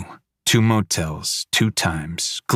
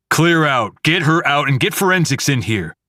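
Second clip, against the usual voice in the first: loud commanding shout, higher; barked orders; 7 semitones higher, 4 dB louder than usual. Acted. Officer ordering everyone out, a loud command. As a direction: bark it at the team.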